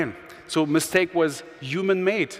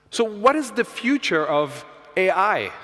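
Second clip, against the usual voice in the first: slow and clear for the machine; 5 semitones higher than usual. Real, not acted. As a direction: speak slowly so the computer understands. Reads question into the AI mic.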